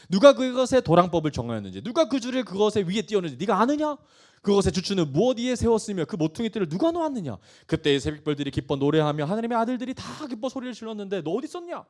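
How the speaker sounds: emphatic, driving rhetorical questions; forceful scripture reading. Acted. God questioning Job about creation, forceful. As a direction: read it out as God's challenge. Reads God's questions aloud.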